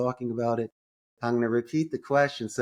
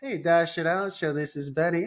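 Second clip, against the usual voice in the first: assistant answering; 5 semitones higher than usual. Retold or imitated. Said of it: "Betty, say".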